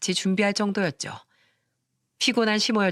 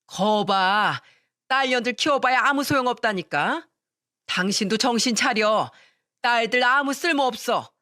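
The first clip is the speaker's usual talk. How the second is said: 고집스러운 시어머니; 3 semitones higher than usual. Acted. 시모가 고집부림.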